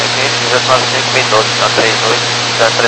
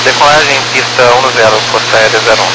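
crackly military radio. Real, not acted. Air force pilot reads back.

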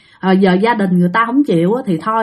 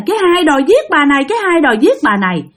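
quick, mildly raised imitated boy's cry; child crying out; 4 semitones higher, faster than usual. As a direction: repeat the boy's accusation in a hurried mock outcry. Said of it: "nó la làng lên". (giả giọng bé trai la làng, nói nhanh)

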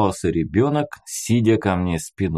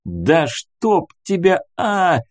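raised, drawn-out exasperated oath; exasperated cursing; 8 semitones higher, slower than usual. A narrator's reading. Hero gives in to the crying boy, cursing in exasperation. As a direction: curse slowly in helpless annoyance. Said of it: "выругался я".

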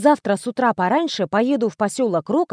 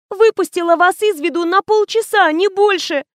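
crying; 8 semitones higher, 3 dB louder than usual. Acted. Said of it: "заплакала Коркина".

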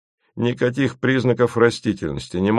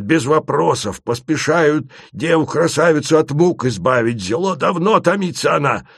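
indignant Asen; 3 semitones higher than usual. A narrator's reading. Asen scolds the travellers for asking questions. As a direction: lecture them in outrage. Asen's voice.

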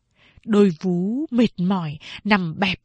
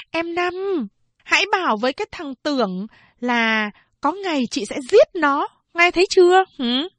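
calm threat; 7 semitones higher than usual. A narrator's reading. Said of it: "Chị thản nhiên nói".

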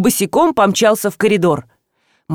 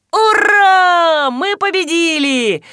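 triumphant shout; 7 semitones higher, much slower than usual. A narrator's reading. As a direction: celebrate the victory. Boot finally pulled off.

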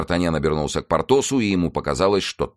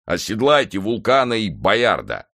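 raised-voice order to a servant; shouted order; 5 semitones higher, 4 dB louder than usual. A narrator's reading. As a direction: call out the command, pitched up. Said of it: "крикнул Портос". (приказ на повышенном тоне)

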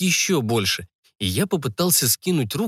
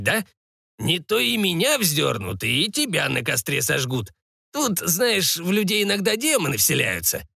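lightly voiced old man, cautioning; a hint of a creaky, wary sorcerer; old sorcerer warning. Old sorcerer warns the boy.

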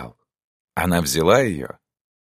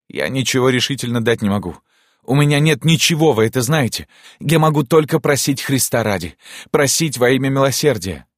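high, impassioned begging, building louder; desperate plea; 7 semitones higher, 4 dB louder than usual. Acted. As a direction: beg for mercy at her feet. Prince begging at her feet. (страстная мольба о милосердии)

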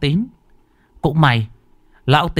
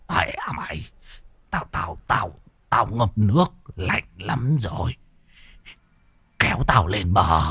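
low breathy whisper, too cold to speak; cold trembling whisper; weak shivering whisper; 4 semitones lower, 5 dB quieter than usual. Acted. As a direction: barely get the words out. Freezing old man, weak.

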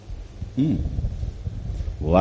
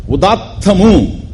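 ఉదాత్తము drawn out slowly, raised high; loud udatta demo; 5 semitones higher, much slower than usual. Shown as a demonstration. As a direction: call out ఉదాత్తము long and high, as a Vedic high tone. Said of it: "అంటే బిగ్గరగా పలకడం".

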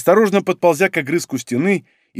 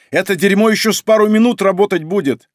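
strained yell; 3 semitones higher, 4 dB louder than usual. Acted. Straining to hold the shield.

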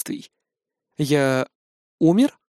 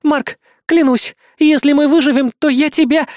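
угроза; 10 semitones higher, 5 dB louder than usual. Acted. Помощница угрожает в ярости.

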